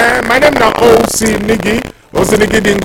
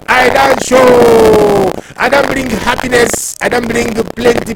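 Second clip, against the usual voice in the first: playful put-on northern Nigerian accent; 3 semitones higher than usual. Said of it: "my northern accent".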